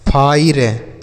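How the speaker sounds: "फायर" as 'phai-re', no 'ya' before the r; wrong fire pronunciation. Shown as a demonstration. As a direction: say "फायर" with r straight after ai. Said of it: "ऐसे नहीं पढ़ेंगे". ("फायर" को फाइर जैसा गलत बोलें)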